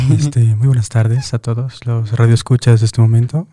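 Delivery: seductive late-night announcer, drawn out; sultry narrator. Pretend. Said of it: "quería entrar con esta voz sensual". (voz sensual de locutor)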